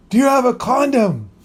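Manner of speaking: a hint of a desperate friend calling out; imitating the friend. Friend bangs on the door asking for a condom, high urgent plea.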